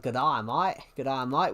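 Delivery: lightly put-on Australian accent; a quick imitation of an Australian greeting. Shown as a demonstration. Streamer showing chat how Australians sound, light Australian accent. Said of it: "the Australian accent's completely different".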